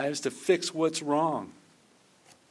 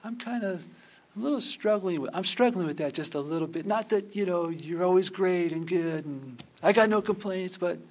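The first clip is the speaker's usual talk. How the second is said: timid mock prayer. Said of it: "not pray".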